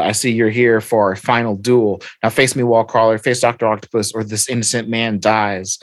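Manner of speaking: lightly voiced villain issuing a challenge; Doctor Octopus. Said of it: "we come across Doctor Octopus".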